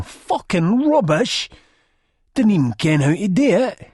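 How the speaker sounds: loud, high scornful complaint; disgusted outburst. A narrator's reading. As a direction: shout your contempt. Chizzy complains in disgust, acted out.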